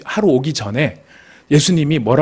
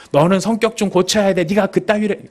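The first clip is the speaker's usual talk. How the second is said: higher-pitched telling-off, lightly acted; mock scolding; 5 semitones higher than usual. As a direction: scold them about their temper. (나무라는 말투로)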